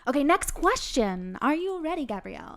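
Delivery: booming hype announcer intro. Acted. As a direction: announce it like a fight is about to start. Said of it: "I love your announcer voice".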